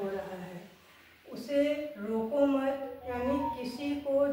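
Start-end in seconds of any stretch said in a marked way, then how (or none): 1.3-3.0 slow, deliberate "उसे रोको मत" as one phrase; मत grouped with रोको. Shown as a demonstration. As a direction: hold "उसे रोको मत" together, ending on "मत". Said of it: "कॉमा लगाने के कारण". ("उसे रोको मत" धीरे, एक साथ)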